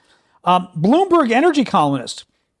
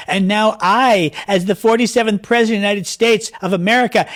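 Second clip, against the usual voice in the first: mock Trump tweet reading; 3 semitones higher than usual. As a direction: ham up the president's boast. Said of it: "Listen to this tweet today".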